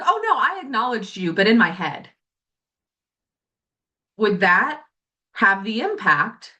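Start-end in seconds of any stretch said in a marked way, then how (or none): 0.0-2.1 high, airy excuse; mock innocent. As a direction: brush it off like it's obvious. Mock excuse from the other person.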